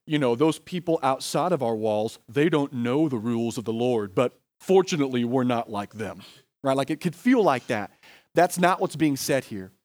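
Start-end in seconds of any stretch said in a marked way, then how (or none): 0.3-6.2 mildly smug imitation of a snobbish church; a hint of looking down on outsiders; uppity high horse. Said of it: "the uppity, high horse church being like".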